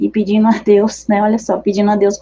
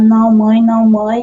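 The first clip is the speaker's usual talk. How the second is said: put-on child's voice, slow and crying; 3 dB louder than usual. Retelling her son refusing her through tears: imitating a child crying. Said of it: "Aí ele começou a chorar".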